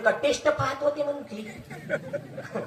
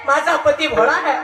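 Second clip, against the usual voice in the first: louder, rising indignant outburst ending in a curse; wife's outrage; 3 dB louder than usual. Retold or imitated. Wife sees her husband shamed, loud indignant cry. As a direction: defend her husband, voice swelling with anger. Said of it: "आली आणि पाहते".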